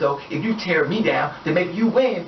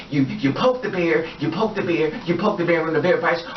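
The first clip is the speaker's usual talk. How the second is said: ordinary talk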